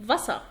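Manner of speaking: فاسا ending in an open "ah"; German فاسا, "VA-sah"; final -er as "ah". Shown as a demonstration. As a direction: drop the R at the end of فاسا. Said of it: "اي ار لما بتيجي في اخر الكلام بتقرا اه".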